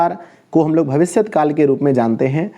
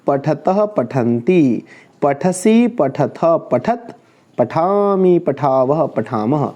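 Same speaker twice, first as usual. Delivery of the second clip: sing-song table, falling at each group's close; conjugation recitation; much slower than usual. Shown as a demonstration. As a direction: recite the old forms rhythmically. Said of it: "जैसे हम उसको बोलते थे".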